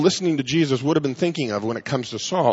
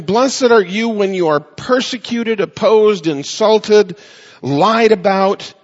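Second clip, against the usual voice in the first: louder, higher, each word hammered out slowly; rising preached climax; 5 semitones higher, 5 dB louder, slower than usual. Acted. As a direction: build the list to a ringing peak.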